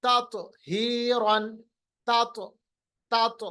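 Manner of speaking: slow ततहीरन with a bouncing heavy त; mid-word qalqalah. Shown as a demonstration. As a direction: echo the second त of ततहीरन. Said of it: "बीच वाला". (ततहीरन में बीच का क़लक़ला)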